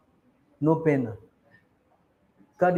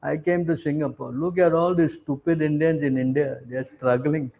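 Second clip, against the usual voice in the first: lowered voice, playing the big shot; mock self-importance; 4 semitones lower, 3 dB quieter than usual. Puffed-up emigrant looking down on those back home, mock boasting. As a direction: boast in a low, imitated voice. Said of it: "you think I'm big time".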